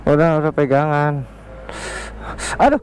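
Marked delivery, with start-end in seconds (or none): 2.5-2.8 high, whiny mock groans of pain; faked pain. Pranking his girlfriend with a fake injury, hammed-up high aduh. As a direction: ham up being hurt, high-pitched.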